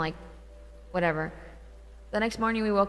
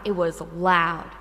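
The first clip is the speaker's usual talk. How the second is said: slow, insistent stress on "loud"; "loud" stretched long and firm; emphatic LOUD; 2 semitones lower, 3 dB louder, much slower than usual. Real, not acted. Insists on how loud it was.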